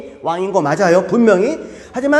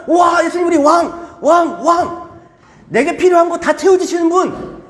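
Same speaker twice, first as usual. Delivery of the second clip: crowd cheering; 7 semitones higher than usual. Retold or imitated. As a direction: cheer like a hopeful crowd hailing a king. Crowd cheering their king.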